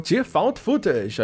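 ordinary talk, nothing marked

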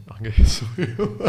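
slow words broken by laughter; laughing. Real, not acted. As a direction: laugh through the admission. Laughing at himself. (a rir)

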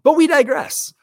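loud, high-pitched burst; mock announcement. Real, not acted. Co-host cutting off their own tangent, loud mock announcement. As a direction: call it out over the chatter.

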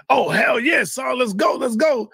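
imitating an eager shouted yes; mock excited shout, hyped to go; eager yell. Polite eagerly accepting the invite, a mock excited shout.

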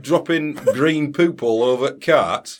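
grumbling Sheffield local; Sheffield accent. Pretend. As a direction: moan in broad Sheffield. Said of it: "this is meant to be a Sheffield accent".

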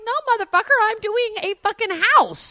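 high-pitched indignant acted comeback; exasperated retort. Partner retelling answer to plea for help, exasperated retort. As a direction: fire back in mock outrage. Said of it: "I'm like".

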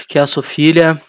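mumbled through a half-closed mouth; talking with mouth closed. Real, not acted. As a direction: barely open the mouth, words blurred. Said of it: "eu falei com a boca meio fechada".

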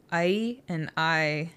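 ai and I said slowly, set against each other; ai versus I. Shown as a demonstration. Host shows listener the two sounds she mixes up, slowly. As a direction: slowly spell out ai and I as separate sounds. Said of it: "Apparently, I say".

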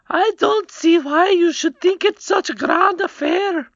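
high, scornful goblin queen; haughty queen voice. A narrator's reading. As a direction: toss it off with disdain. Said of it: "tossing her head backward".

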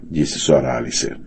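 plain reading voice

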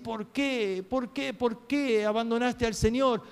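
acted tearful reproach; imitated tearful plea. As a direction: plead as if weeping, without real sobs. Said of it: "llorar y a llorar y a decir".

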